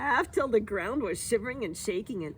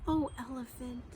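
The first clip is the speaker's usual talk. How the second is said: much softer, gentle plea Oh, elephant; soft pleading; 8 dB quieter than usual. Acted. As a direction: say Oh, elephant softly, coaxing. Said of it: "laugh softly".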